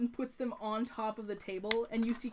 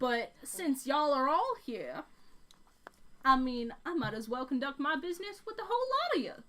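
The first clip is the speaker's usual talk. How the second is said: put-on Texan accent; 3 semitones higher than usual. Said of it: "Texan accent".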